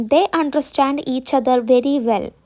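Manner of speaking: each word spaced for writing; slow dictation. Shown as a demonstration. Teacher dictating a sentence to students, very slow. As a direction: dictate slowly so students can copy. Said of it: "ഇപ്പം നമ്മൾ പറയാം".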